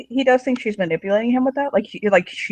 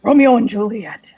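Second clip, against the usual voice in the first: louder, mildly exasperated rebuke; scolding; 3 semitones higher, 4 dB louder than usual. Acted. He scolds her over the enemy's son, exasperated. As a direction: put force on it, as a reprimand. Acted quarrel about her romance.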